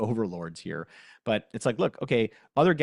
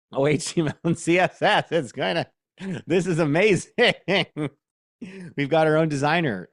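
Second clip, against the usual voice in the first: laughing, higher and louder with real delight; thrilled as the AI builds the page; 7 semitones higher, 7 dB louder than usual. Real, not acted. Watching the demo output, laughing and genuinely thrilled.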